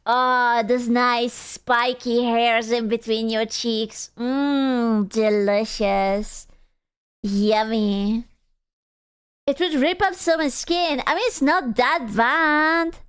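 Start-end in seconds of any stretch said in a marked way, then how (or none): 0.1-8.3 slow, relishing and exaggerated; mock savoring. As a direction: savor each word like tasting food.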